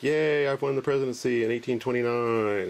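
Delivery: a mild mock cheer from the smiling portrait; happy Andrew Jackson. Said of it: "He's like".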